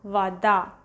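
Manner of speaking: "вода" said va-DA; "вода" with stress on the final DA; unstressed O as A. Shown as a demonstration. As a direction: model "вода" with first vowel reduced to A. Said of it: "we pronounce as A".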